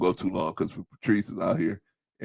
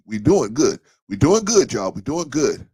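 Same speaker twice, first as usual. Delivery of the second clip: excited hype; 5 semitones higher, 6 dB louder than usual. Real, not acted. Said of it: "hyping the fundraiser".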